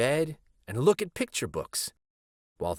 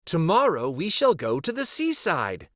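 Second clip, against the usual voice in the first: excited rabbit; 7 semitones higher, 4 dB louder than usual. A narrator's reading. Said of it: "thought the little rabbit".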